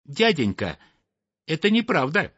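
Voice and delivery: a small bird protesting to an uncle; lightly voiced little snipe.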